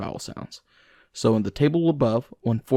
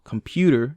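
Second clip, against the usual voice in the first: "computer" with heavy stress on the middle syllable, com-PU-ter; 3 semitones higher than usual. Shown as a demonstration. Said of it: "we place extra heavy stress on one syllable".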